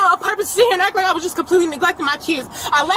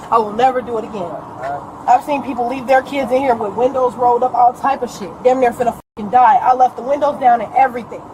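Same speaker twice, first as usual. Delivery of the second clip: emotional; 5 semitones lower than usual. Real, not acted. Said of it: "I'm emotional right now".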